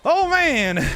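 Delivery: put-on old-timey fast-talking announcer; lightly voiced 1930s radio host; 1930s cartoon voice. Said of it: "doing the nineteen thirties voice involuntarily".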